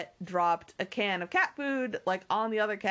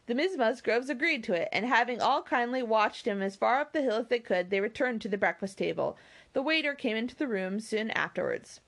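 measured, expressive storybook reading; story narration; 4 semitones higher, faster than usual. A narrator's reading. Reader telling listeners of the party at Lyme, story narration. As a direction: read the novel out with lilting phrases. Reads a novel aloud.

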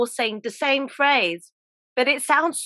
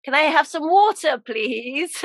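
louder second try; 4 semitones higher than usual. Retold or imitated. Tourist repeats the request to a puzzled seller, louder. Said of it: "And I said".

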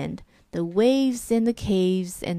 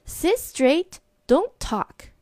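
strict teacher; 8 semitones higher, slower than usual. Acted. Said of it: "telling the class".

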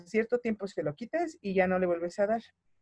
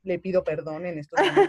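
laughing apology; 3 dB louder than usual. Real, not acted.

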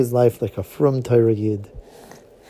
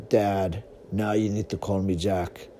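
low voice; 4 semitones lower than usual. Acted. Son corrects father.

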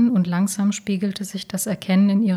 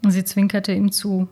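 usual speaking voice

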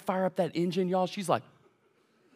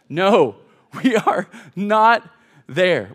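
loud, drawn-out refusal, word by word; mock a parent at wit's end, slow and loud; exasperated dad; 8 dB louder, much slower than usual. Dad answers his impatient daughter, loudly exasperated.

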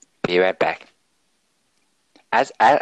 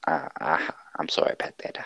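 put-on Australian accent; 3 semitones lower, 4 dB quieter than usual. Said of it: "he is, in fact, from Australia".

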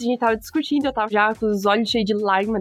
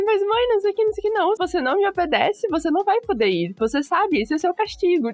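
mock teen and mom quarrel; 6 semitones higher than usual. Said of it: "Aí eu falei".

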